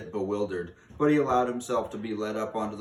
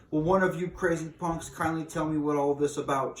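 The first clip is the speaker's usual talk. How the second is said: higher pitched angry demand; suspicious boy yelling at the witches, higher; shouting angry boy; 7 semitones higher, 4 dB louder than usual. A narrator's reading. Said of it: "shouted Bruno".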